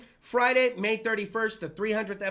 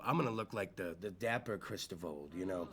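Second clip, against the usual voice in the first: much lower, much quieter suave voice; dapper low voice; 15 dB quieter than usual. Pretend. Host promising to look sharp, in a much lower suave voice. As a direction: sink into a deep smooth dapper-gentleman voice. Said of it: "I don't know what this, what I'm doing here".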